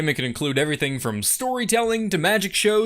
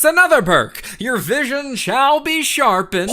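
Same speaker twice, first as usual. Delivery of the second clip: showman pitch; 4 semitones higher, 4 dB louder than usual. Acted.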